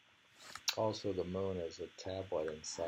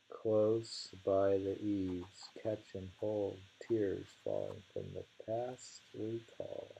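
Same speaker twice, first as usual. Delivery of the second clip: slow, lingering verse reading; unhurried recital of a short poem; slower than usual. Acted. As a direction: draw the images out gently, slowly. Reads a kimono poem.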